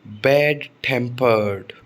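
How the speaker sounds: बैड टेम्पर्ड drawn out slowly, stress meant on TEM of टेम्पर्ड; second-word stress. Shown as a demonstration. Teacher modelling a compound adjective, slow second-word stress. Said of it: "तो stress second syllable पर आता है".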